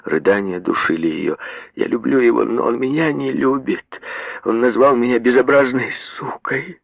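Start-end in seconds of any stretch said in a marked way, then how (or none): 1.8-6.8 hysterical. A narrator's reading. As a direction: blurt it out in hysterics. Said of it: "твердила она в истерике".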